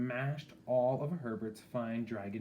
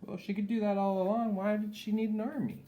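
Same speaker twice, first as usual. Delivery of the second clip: higher, fast, incredulous aside; wry aside; 11 semitones higher, 5 dB louder, faster than usual. Acted. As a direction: quip to the listeners. Reader's joking aside.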